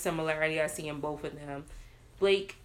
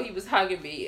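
usual speaking voice

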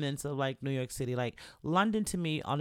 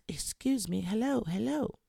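higher-pitched imitation of a proper English gentleman; 7 semitones higher than usual. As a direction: mimic a proper Englishman calling out. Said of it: "I just hear this voice".

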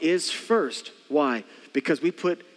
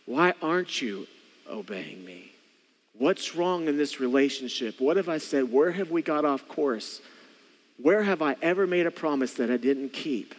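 gentle questioning; 3 semitones lower than usual. Acted. God asking why we aren't obeying, gently. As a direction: ask with patience, pausing and letting it fall. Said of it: "God's voice is".

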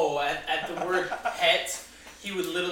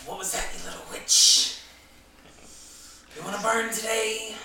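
angry; 4 semitones higher, 4 dB louder than usual. Acted. Character snaps at the woman.

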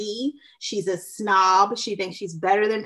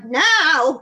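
higher mock whine; retold whiny "no"; whiny retort; 4 semitones higher, 3 dB louder than usual. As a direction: imitate a whiny refusal. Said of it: "it was just, like, very whiny".

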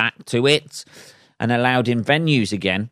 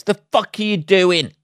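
higher, sharper mock outburst; startled road-rage yell at a driver pulling out; hammed-up motorway yell; left window outburst; 9 semitones higher, 3 dB louder than usual. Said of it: "the left side window is".

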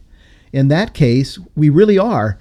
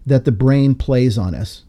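slow quoting; slower than usual. Retold or imitated. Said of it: "quoting him now".

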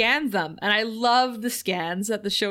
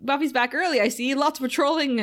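awkward cheery greeting; 5 semitones higher than usual. Retold or imitated. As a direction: cover up with fake breeziness. Imitating Spike's awkward cover.

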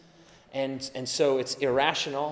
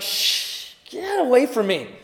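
irritated brush-off; 8 semitones higher, 5 dB louder than usual. Retold or imitated. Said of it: "And you're like".

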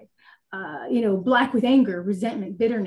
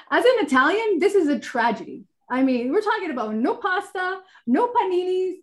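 mock tragic; 7 semitones higher than usual. Mock tragedy over losing pasta.

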